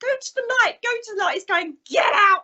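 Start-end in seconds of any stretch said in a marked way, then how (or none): 0.0-1.3 high-pitched, put-on posh voice; posh accent. Partner sending spirits to the light, posh high voice. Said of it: "I'm going all posh". 1.9-2.4 loud, high exasperated yell; mock shout. Partner who needs his sleep to spirits, mock shout.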